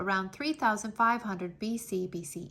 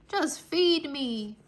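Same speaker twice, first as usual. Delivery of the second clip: slow plea; 5 semitones higher, 3 dB louder, much slower than usual. Acted. Hungry Anansi pleads.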